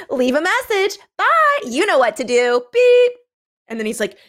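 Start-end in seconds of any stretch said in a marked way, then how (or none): 0.1-2.6 very high, chirpy sign-off; mock perky machine message; answering-machine greeting. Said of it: "you hear, like". 2.7-3.1 high, loud voicemail beep; piercing mock answering-machine beep; imitated machine beep. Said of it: "you hear, like".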